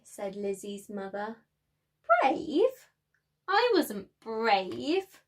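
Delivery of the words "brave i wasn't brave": can't believe she's called brave; surprised doubt. Acted. Lizzie answers her mother, surprised and doubtful. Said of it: "Lizzie said".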